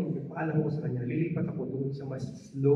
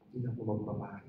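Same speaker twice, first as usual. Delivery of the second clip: defeated murmur; 5 semitones lower, 8 dB quieter, faster than usual. Retold or imitated. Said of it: "Galit na galit ako".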